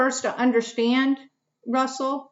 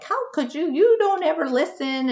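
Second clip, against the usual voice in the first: imitating a yell; 6 semitones higher than usual. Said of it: "yelling at him in a way".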